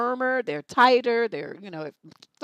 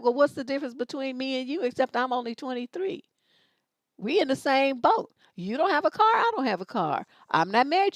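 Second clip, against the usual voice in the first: higher-pitched, insistent mock confrontation; challenging comeback; 5 semitones higher than usual. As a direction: throw each point back at him, pitched up. Acted comeback to the brother.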